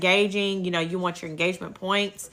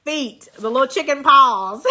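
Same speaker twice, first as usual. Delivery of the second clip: laughing; 4 semitones higher, 4 dB louder, slower than usual. Real, not acted. Giggling about chicken paws.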